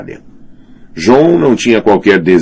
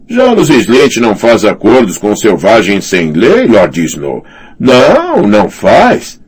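high, scornful mocking voice; mocking knight; 6 semitones higher, 5 dB louder than usual. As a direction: sneer it with a chuckle. Thorne mocking Jon.

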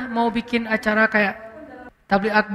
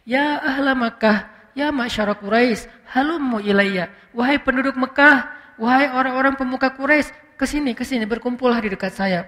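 imitating a gentle summons; unstrained call. Shown as a demonstration. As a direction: call people over without straining or shouting. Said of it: "nggak sampai wajahnya merah".

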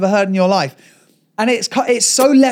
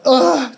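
imitated tantrum grunt; toddler's hissy-fit groan. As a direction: throw out a mock-frustrated "ugh". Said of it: "a little hissy fit".

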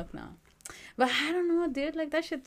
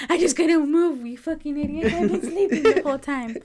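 louder, higher pretend outrage with laughter; mock indignant scolding; 6 semitones higher, 7 dB louder than usual. Coma patient who heard everything scolds family, mock indignant. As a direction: tell them off in jokey indignation.

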